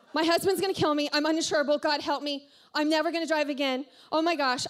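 loud mock panic; retold freak-out. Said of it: "I'm, like, freaking out".

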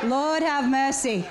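slow, laughing lord have mercy; laughing exasperation. Real, not acted. Exasperated mother laughing about her unruly boys. Repeats exclamation, laughing, slowed.

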